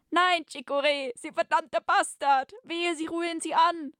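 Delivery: high, hammed-up heroic outrage; outraged threat. Captive warning the villain off Serpina, high outraged cry.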